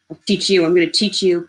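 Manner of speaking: threat. Acted. Attacker threatens while punching.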